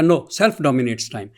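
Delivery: slow, deliberate, each word laid down; slow quoted rebuttal. Retold or imitated. Lecturer quoting Iqbal's reply to Bergson, slow and deliberate. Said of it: "Iqbal نے کہا".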